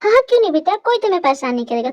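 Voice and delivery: high, loud and eager to please; eager motherly reassurance. Acted. Mother lets her son cook undisturbed, eagerly agreeing.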